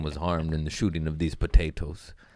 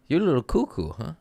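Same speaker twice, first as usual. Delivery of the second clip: mocking listener; 6 semitones higher, faster than usual. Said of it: "people probably like".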